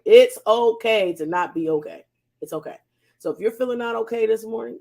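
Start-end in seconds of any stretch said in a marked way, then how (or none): 0.0-2.1 louder, declared to the whole audience; shouting it. Real, not acted. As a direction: proclaim it out loud as the key message. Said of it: "I'ma shout it".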